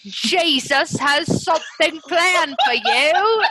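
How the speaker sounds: high, slow, laughing bad British accent; worst British accent. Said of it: "it's the worst British accent".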